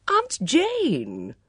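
loud, high call for attention; insistent call. A narrator's reading. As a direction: call your aunt out of her thoughts. Bunch calls distracted aunt to attention.

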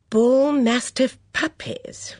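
whispered, slow read-out of an ad; reading under breath. Acted. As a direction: murmur the ad to herself.

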